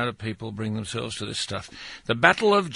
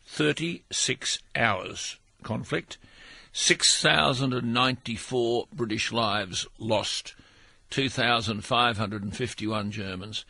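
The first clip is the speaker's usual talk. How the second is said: slow, deliberate figures with pauses between; measured and grave, word by word; slow, weighty delivery. Shown as a demonstration. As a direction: say it slowly, letting each number land. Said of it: "You've got to say it slowly".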